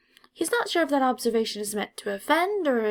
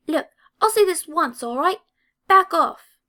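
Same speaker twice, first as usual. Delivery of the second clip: loud, higher angry telling-off; angry warning; 8 semitones higher, 9 dB louder than usual. A narrator's reading. Angry redhead confronts Draco in hallway, loud and furious. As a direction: storm up and bark the warning. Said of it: "An angry Ginger is storming".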